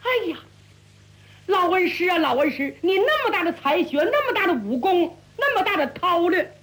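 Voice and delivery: 边想边忍不住笑; 心里偷乐，话里带着笑; 暗自发笑. Acted. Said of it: "徐达心里正乐呀". (徐达心中暗笑胡大海，语带笑意)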